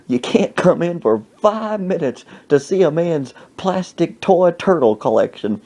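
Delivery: mock an offended elder lecturing youngsters; indignant old man. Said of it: "some old black man".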